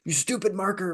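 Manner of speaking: high-pitched mock scolding of an object; mock outburst. Retold outburst at the marker.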